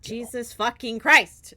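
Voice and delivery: loud startled curse, slowed; shocked exclamation. Real, not acted. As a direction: blurt it out in real shock. Shocked by hype train record.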